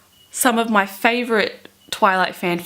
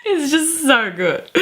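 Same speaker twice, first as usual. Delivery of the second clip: swooning; 9 semitones higher than usual. Real, not acted.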